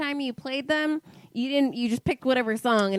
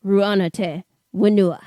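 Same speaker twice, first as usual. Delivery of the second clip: Viking shout; 2 semitones lower, 7 dB louder than usual. Pretend. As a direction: bellow "Ruana Te Wenua" like a Viking, with full force. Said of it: "Say it like a goddamn Viking".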